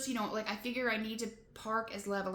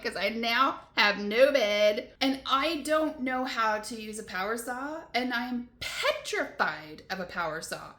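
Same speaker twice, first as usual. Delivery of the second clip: retold overwhelm; 2 semitones higher, 4 dB louder than usual. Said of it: "I was just so overwhelmed in that moment".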